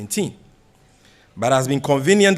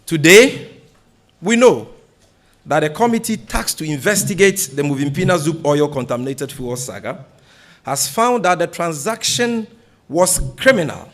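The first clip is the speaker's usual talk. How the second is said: louder and higher, pressing hard on each phrase; forceful denunciation; 3 semitones higher, 5 dB louder than usual. Real, not acted. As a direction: hammer the accusation home to the press. Denouncing the scandal at a press conference.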